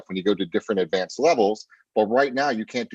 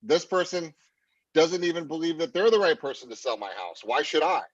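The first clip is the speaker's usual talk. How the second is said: higher-pitched doubting inner voice; doubting client's subconscious; 6 semitones higher than usual. Acted. Coach voicing the client's subconscious after upswings, higher doubting voice. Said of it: "It just says".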